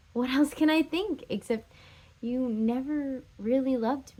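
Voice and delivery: mild reproach, rising in bursts then dropping back; hurt, pleading ex-lover. Acted. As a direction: argue your love to the one who left. Acted lovers' quarrel as Catherine.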